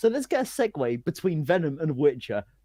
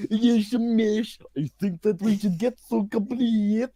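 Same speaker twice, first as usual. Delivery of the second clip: put-on Russian-Iranian accent; 5 semitones higher, slower than usual. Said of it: "mix of an Iranian and a Russian guy".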